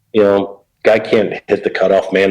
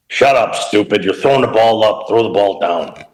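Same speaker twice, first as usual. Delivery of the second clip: lightly voiced gruff coach barking at a kid; a hint of a growl, telling the kid off; growling old coach; 3 semitones higher than usual. Mel Queen scolding the wild young pitcher, light mock growl. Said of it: "he kinda growled when he talked".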